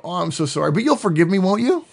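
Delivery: hammed-up sorry, coaxing for forgiveness; sweet-talking apology. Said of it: "and they go".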